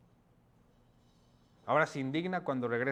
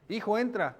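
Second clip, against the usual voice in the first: higher, gentle begging; pleading father; 6 semitones higher than usual. Acted. Father begs his older son to come in, pleading. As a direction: coax the son inside. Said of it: "Le rogaba".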